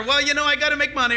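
excuse-making. Pretend.

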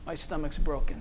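a sick friend barely getting the words out; weak sick murmur. Retold or imitated. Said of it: "He goes".

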